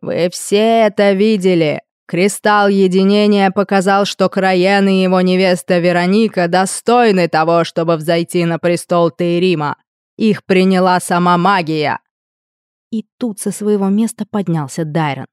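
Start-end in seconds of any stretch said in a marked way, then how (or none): 0.0-12.0 booming warrior king. Acted. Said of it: "голос короля".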